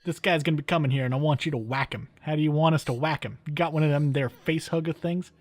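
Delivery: lightly voiced mob boss; a bad gangster impression, quick; mobster voice. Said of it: "That's my really bad mobster impression".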